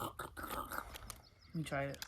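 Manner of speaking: slow breathy whisper. Pretend. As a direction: whisper the request. Whispering during pretend meal.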